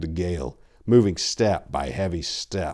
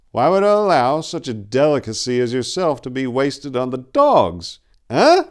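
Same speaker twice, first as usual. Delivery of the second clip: matter-of-fact; 5 semitones higher, 4 dB louder than usual. A narrator's reading. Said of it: "as though the answer was obvious".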